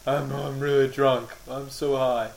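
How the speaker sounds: slow, dazed stoner voice. Retold or imitated. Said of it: "declare your current state".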